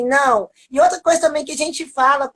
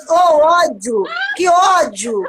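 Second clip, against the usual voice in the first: exasperated outburst; 3 semitones higher than usual. Retold or imitated. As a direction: burst out in frustration at him. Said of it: "Eu falei".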